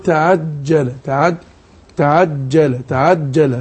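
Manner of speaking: تعجل with a tight, stopped dj ج; slow, low, repeated drill of the ج in تعجل; teacher repeating the correct تعجل; correct jeem. Shown as a demonstration. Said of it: "هكذا".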